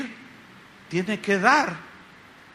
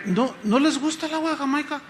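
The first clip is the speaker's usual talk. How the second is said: higher, puzzled retold question; concerned question; 6 semitones higher than usual. Pastor asks his dinner guests about the drink, puzzled and high-pitched. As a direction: ask the guests, pitched up and tentative. Retells asking the guests aloud.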